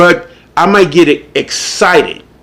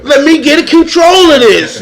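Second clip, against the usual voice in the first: mock self-control; 7 semitones higher than usual. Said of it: "before you say".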